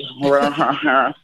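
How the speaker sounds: laugh-like "rah-ha-ha" parodying British speech; wordless British-sounding haw-haw; mock British accent noise. Joking about children copying teacher's accent, mock British haw-haw. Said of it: "the British".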